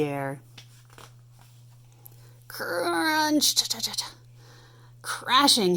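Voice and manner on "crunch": high punchy crunch; crash word. Acted. Tank smashes into the junkyard, crunch. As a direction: bang it out like a crash.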